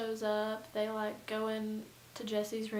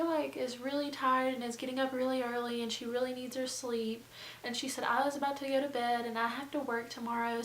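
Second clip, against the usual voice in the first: nice; 4 semitones higher than usual. Retold or imitated. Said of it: "She's nice".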